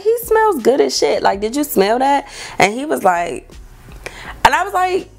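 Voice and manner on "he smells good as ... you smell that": excited. Retold or imitated. Insisting to her date.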